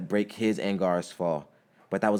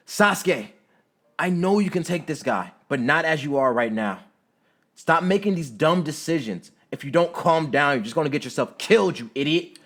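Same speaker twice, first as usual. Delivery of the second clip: high, loud urgent scolding; yelling; 8 semitones higher, 6 dB louder than usual. A narrator's reading. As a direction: yell at a reckless friend to calm down. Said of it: "Sasuke yells back at Naruto".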